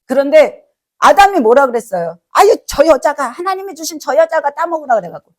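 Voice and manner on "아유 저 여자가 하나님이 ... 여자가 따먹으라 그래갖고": higher-pitched mock protest; blame-shifting excuse. Adam blaming the woman to God, defensive excuse. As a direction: pass the blame with a pleading lift.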